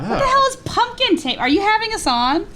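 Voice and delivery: mock an Aussie eshay picking a fight; Aussie eshay slang. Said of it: "aussie eshay slang".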